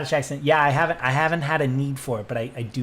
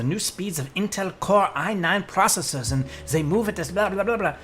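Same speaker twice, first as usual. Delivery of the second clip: re-enacted commercial pitch in German accent; 5 semitones higher than usual. Actor retells Intel commercial audition, in German accent. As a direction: rattle off ad copy in a German accent. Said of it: "I have been doing that accent for".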